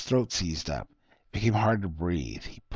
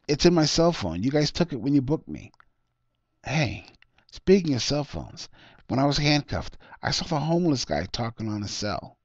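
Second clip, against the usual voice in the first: lightly voiced worried suspect, a bit higher; arrested man telling the detective his story, lightly raised; Harry, raised voice; 6 semitones higher, 4 dB louder than usual. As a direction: plead your case to the detective, a touch higher.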